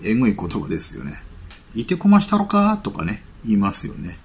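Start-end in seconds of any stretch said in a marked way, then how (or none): 1.8-2.8 lightly acted Kansai threat, pitched up; a mild mock Kansai challenge; Kansai tough talk. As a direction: quote rough Kansai slang with raised pitch. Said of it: "関西のね、 えぐい言葉ですよね".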